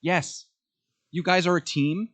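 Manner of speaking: insistent fan outburst, voice lifted high; retold yelling at TV. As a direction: cheer at the screen, half-yelled. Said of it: "I was screaming at the T V".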